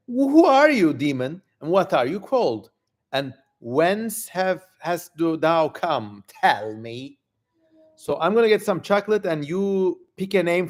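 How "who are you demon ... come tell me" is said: commanding king. Acted. King Solomon questioning the summoned demon, commanding. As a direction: demand the demon's name like a king.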